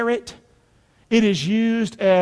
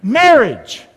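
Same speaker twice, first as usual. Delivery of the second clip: very slow, loud, word by word; call-and-response; 4 semitones higher, 7 dB louder, much slower than usual. Shown as a demonstration. Preacher leading the congregation to repeat, slow loud call-and-response. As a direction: spell out each word for a crowd to repeat. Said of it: "Again, say it with me".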